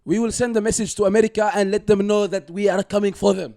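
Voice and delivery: comic Arab accent impression; mock Arab accent. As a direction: ham up an Arab accent like a terrorist video. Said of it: "let me do an Arab accent".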